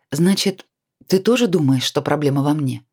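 a touch of peevish whining; slightly grumpy. Acted. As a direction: grumble it, mildly offended. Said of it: "Голос Наташи звучал немного брюзгливо". (немного брюзгливо, с обидой)

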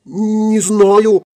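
put-on very high, clueless girlish voice; acted airy innocence; innocent shrug. A narrator's reading. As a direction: play dumb in a high little voice. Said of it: "пожала плечами Вильямс".

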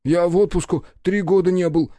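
high, loud grumbling complaint; grumbling secretary. A narrator's reading. Secretary grumbles to the mayor about leave, high. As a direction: grumble out the grievance. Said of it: "буркнул Прохор".

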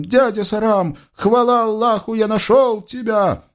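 высокий восторженный голос юноши; кричи от радости высоко; душевный крик юноши. Acted. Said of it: "с душевным криком". (высокий радостный возглас Юсуфа)

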